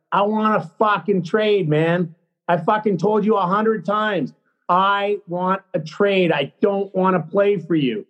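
heated, drawn-out insistence; exasperated demand. Retold or imitated. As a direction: press each demand on the coach. Retold trade demand to coach.

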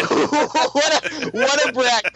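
laughing through the words, pitch up; amused, high-pitched laughing delivery. Real, not acted. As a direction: crack up while repeating it. Cracking up at the boast.

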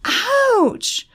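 high-pitched yelp of pain; pained, high "ouch"; wincing in pain. A narrator's reading. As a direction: cry out high as the arm is twisted. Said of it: "Christopher winced despite himself".

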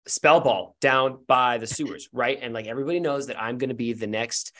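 lightly voiced earnest boy, rambling; breathless run-on explanation with little asides; earnest kid. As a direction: confide it sincerely, a touch low. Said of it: "looks at you earnestly and says".

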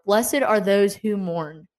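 slow, measured verse quoted from Matthew; unhurried recitation of a Bible verse; slow scripture reading. Shown as a demonstration. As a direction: read each word of the verse slowly. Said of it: "Matthew five four".

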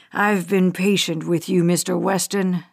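a hint of a patient, threatening hijacker; menacing hijacker. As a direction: hijacker taunting a father over camera, low and cold. Hijacker Bradley addresses Weston.

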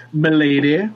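mock gallant. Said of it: "forced you to say Milady".

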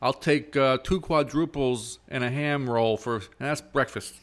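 put-on New York accent quote; Brooklyn accent. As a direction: Brooklyn accent, lightly done. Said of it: "But why is he from Brooklyn?".

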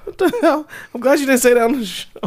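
high, laughing what the hell; real laughing shock; laughing disbelief. Real, not acted. Friend laughs at the story in high disbelief.

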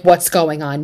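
a bigger, exasperated what's going on. Retold or imitated. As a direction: throw it out as the baffled viewers. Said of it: "And we're like".

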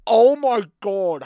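loud, slow, high groan; mortified. Real, not acted. Cringing at own message.

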